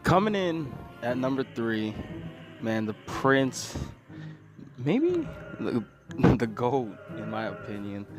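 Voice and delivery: slow dramatic countdown reveal; countdown announcer. Acted. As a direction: build hype for the reveal.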